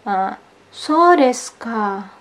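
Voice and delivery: so desu ka with a falling, slow tune, a knowing "I see". Shown as a demonstration. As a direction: say so desu ka slowly, pitch dropping at the end. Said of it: "Diucapkan dengan notasi menurun". (so desu ka diucapkan pelan dengan nada menurun)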